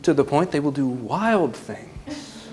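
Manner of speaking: laughing through the words. Real, not acted. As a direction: let a laugh break in. Laughing at parents.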